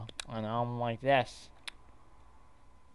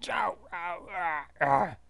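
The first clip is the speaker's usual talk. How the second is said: loud, higher-pitched ows and ahs; cries of pain; 6 semitones higher, 5 dB louder, slower than usual. Acted. Character waking up hurt, pained yelps. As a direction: yelp as if hurt.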